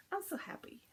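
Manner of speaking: happy whisper. Real, not acted. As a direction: breathe it out in a whisper. Happy about finishes.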